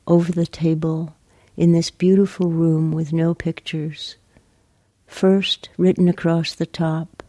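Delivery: measured, even poetry reading with long pauses; poem reading. Acted. Poet reading her poem for Lucy to the interviewer, measured poem reading. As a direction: read the poem line by line, leaving space.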